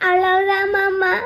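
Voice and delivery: slow, drawn-out tearful reply; crying. Acted. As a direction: whimper it, dragging each word. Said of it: "சொல்லிட்டு அழு". (அழுது இழுக்கும் குரல்)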